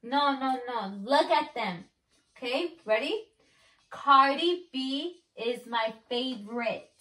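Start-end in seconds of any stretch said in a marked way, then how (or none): 3.9-6.9 spaced-out, deliberate words. Shown as a demonstration. Repeats for lip reader.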